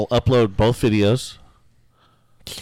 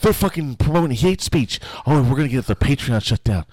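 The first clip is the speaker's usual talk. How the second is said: hammy offended whiner; mock the complainers, shrill and fast; mocking outraged critic; 3 semitones higher than usual. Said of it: "Oh, it's like".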